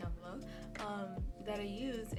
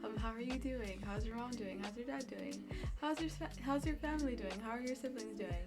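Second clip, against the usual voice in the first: eager pleading; 2 semitones higher than usual. Retold or imitated. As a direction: beg viewers to keep talking. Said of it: "I'm kinda just like".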